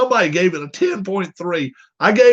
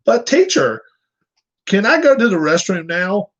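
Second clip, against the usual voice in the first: put-on kid voice; 4 semitones higher than usual. Kid asking teacher in cartoon.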